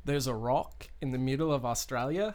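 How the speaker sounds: attempted Australian accent, rising at the end; amateur try at an Australian accent. Shown as a demonstration. Podcaster showing co-hosts a practised accent, tentative Australian accent. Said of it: "practicing my Australian accent".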